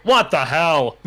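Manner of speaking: drawn-out, hammed-up exclamation. Shown as a demonstration. Redoing the line on spotting its exclamation point, exclaimed. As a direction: read it with a big exclamation point. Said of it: "oh, that's an exclamation point".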